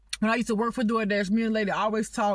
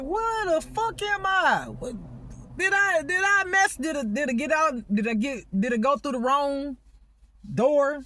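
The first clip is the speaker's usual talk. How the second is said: bewildered disbelief; 3 semitones higher than usual. Retold or imitated. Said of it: "I'm like".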